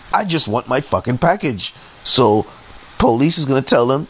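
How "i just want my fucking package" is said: mildly raised-pitch exasperated plea; retold insistence, pitch lifting; frustrated demand. Customer wanting only his package, mildly frustrated demand.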